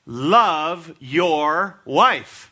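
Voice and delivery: very slow, every word drawn out; slow weighty decree, "wife" falling; solemn command. Acted. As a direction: lay down the command one word at a time. Preacher proclaims command.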